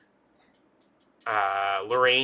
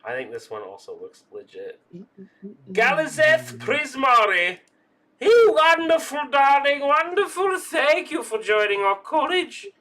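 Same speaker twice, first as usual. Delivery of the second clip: high, loud, theatrical gushing welcome; effusive dean; 12 semitones higher, 8 dB louder than usual. Pretend. Dean thanks a student for joining the college, effusive. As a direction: draw out the praise like a grand host.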